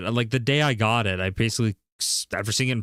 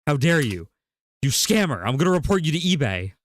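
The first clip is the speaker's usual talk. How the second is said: indignant raised voice, a bit louder; mocking the seller's fake outrage, raised and loud; 4 semitones higher, 4 dB louder than usual. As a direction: play the offended seller, hammed-up. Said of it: "the guy literally goes".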